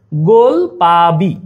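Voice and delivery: slow, low, drawn-out curse; a slow mock hex on a jealous classmate. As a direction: drag out the curse like a spell. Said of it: "অভিশাপ দিলা".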